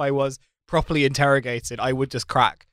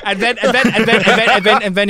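high, laughing, tumbling over words; 8 semitones higher, 3 dB louder than usual. Real, not acted. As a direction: giggle through the build-up. Excited laughing retelling of police visit.

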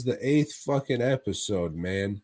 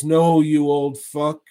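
loud, raised retold rejection; mock refusal; 4 semitones higher, 7 dB louder than usual. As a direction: reject the old suitor loudly and high. Voicing woman's refusal in retelling.

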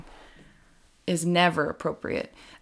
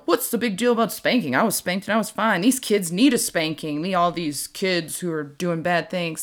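lightly voiced grumpy old man; a hint of a cranky grandpa. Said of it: "That's, like, my old man voice".

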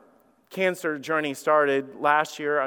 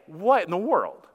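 alarmed protest; 5 semitones higher, 5 dB louder than usual. Retold or imitated. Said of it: "I'm like".

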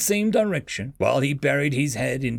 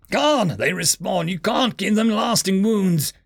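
raised, urgent yell; 6 semitones higher than usual. A narrator's reading. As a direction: call out the warning, pitched up. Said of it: "Azar yelled".

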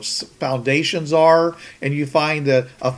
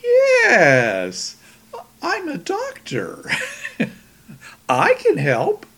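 slow, creepy reassurance with a laugh; a touch of menace, drawn out; creepy doctor; much slower than usual. Retold or imitated. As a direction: play a sinister helper, lightly. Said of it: "And he goes".

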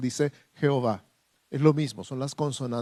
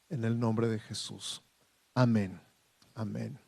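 measured, reverent prayer to God. Real, not acted. Leads the congregation in prayer. (oración reverente y pausada)

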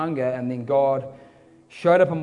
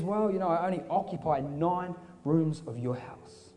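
softer, measured voice; calm reply; 6 dB quieter than usual. Acted. Jesus gently answers the frustrated man, calm. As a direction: answer mildly, taking your time.

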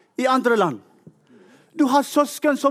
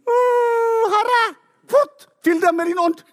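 high, crying plea to the Lord; urgent cry; 11 semitones higher, 3 dB louder than usual. Retold or imitated. Begging the Lord to fill the disciples, crying out. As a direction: burst out begging for the spirit, breaking high.

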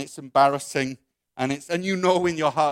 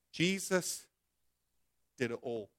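soft, halting admission with pauses; hushed honest admission; quiet confession; 3 semitones lower, 10 dB quieter than usual. Acted. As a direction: confess it gently, voice dropping. Student honestly confesses to God.

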